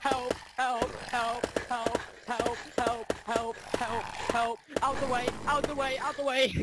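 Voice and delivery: panicked repeated cries for help; frantic, scrambling away in panic; scared horror game streamer. Real, not acted. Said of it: "How are you, like, not scared?".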